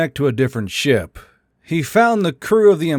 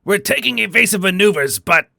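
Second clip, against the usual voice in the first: much higher and fast, panicked captain; terrified; 8 semitones higher, faster than usual. A narrator's reading. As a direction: rush the words in fear. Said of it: "He was terrified".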